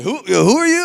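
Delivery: high, loud mock-French voice; puzzled Frenchman on the radio, hammed up; bad French accent. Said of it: "my accent is just absolutely terrible".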